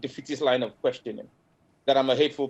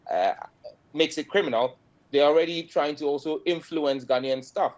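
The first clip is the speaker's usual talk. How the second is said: Ghanaian English, measured and firm; ghanaian accent. Real, not acted. Ghanaian MP in TV interview.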